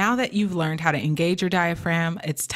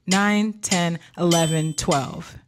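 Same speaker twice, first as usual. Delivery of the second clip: measured counting on a steady beat; exercise count-in; slower than usual. Shown as a demonstration. Coach leading students through a breathing drill, rhythmic counting. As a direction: count them through it, one number per beat.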